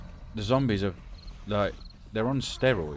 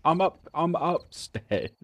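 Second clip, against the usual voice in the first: yelling across the room; 10 semitones higher, 4 dB louder, slower than usual. Real, not acted. Telling friend where she is.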